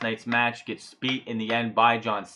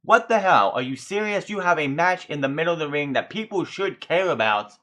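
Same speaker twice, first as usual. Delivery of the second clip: higher, incredulous outburst; fed up with the crowd, raise the pitch; what the hell, are you serious; exasperated disbelief; 4 semitones higher than usual. Retold or imitated. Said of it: "I'm like".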